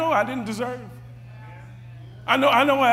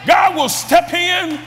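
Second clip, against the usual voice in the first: rising to a shouted, higher climax; preaching at full force; 4 semitones higher, 4 dB louder than usual. Acted. Preacher shouting to congregation about God stepping in, fervent preaching. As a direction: drive it home to the congregation, shouting.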